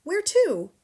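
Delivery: high, loud shocked question; can't believe what she hears; cried out. A narrator's reading. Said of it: "Matilda cried out".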